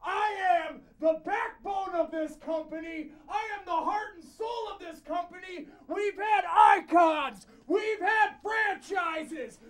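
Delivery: shouting through a cone. Real, not acted. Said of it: "I don't need a microphone because I found this cone".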